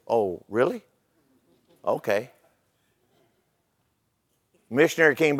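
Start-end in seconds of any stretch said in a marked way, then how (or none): 0.1-2.3 low, quiet reply; understated, hushed quoted reply; meek acceptance. Retold or imitated. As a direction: take the news softly, as the chief. Chief's reply in the joke.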